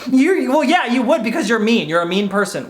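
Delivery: blurting a pent-up grudge; joking jab that turns resentful; mock resentment. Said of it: "hold that resentment inside".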